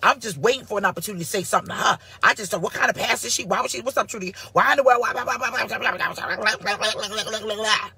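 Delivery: fast, mocking gossip voice; jealous women. Pastor mocking jealous critics in a rattling, fast voice. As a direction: rattle off a jealous woman's gripes. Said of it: "They just be like".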